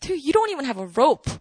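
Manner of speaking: quick, mildly doubting retort; a touch of disbelief, said briskly; skeptical. Retold or imitated. Samaritan woman challenging Jesus about the well, skeptical. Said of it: "she was all skeptical".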